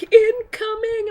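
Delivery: high, slow sing-song call; playful Fran. Retold or imitated. Fran announcing his attack, sing-song. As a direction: stretch it out cutely. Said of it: "he's all like".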